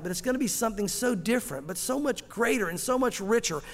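earnest, steady prayer voice; closing prayer. Acted. Preacher closes the sermon by praying to the Lord: earnest prayer. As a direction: pray it to God, sincere and warm.

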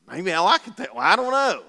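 chuckling through the words; laughing. Real, not acted. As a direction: laugh it off lightly. Laughs at own admission.

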